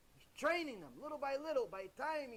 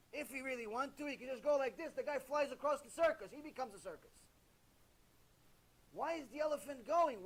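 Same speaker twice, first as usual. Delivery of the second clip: usual speaking voice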